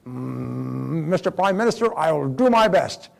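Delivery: hesitant general, drawn out slowly; a reluctant officer stalling politely; doubtful general. Retold or imitated. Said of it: "and the general said".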